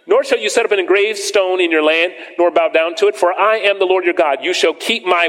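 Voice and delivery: preacher reading scripture aloud to the church. Acted. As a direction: proclaim the verses from the pulpit. Reads scripture in raised voice.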